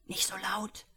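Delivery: breathy hushed whisper, no voice. A narrator's reading. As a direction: hush him without a sound. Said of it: "flüstert Frank".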